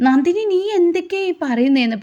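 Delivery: high, strained disbelief; shocked cry. A narrator's reading. Surya aghast at Nandini's drunken claims.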